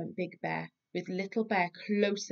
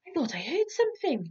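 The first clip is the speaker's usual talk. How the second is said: Little Bear, small voice; 9 semitones higher, faster than usual. Acted. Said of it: "Little Bear said".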